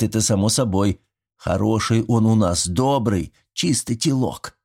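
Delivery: put-on a sly old man coaxing his neighbor; folksy old villager. Old Mitrich inviting Yegor over for fish, chatty and folksy.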